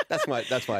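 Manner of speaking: laughing. Real, not acted. Laughs at own announcer voice.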